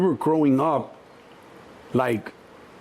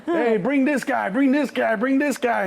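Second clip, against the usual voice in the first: high slow laughing call; 10 semitones higher, slower than usual. Retold or imitated. Mom pointing out kids.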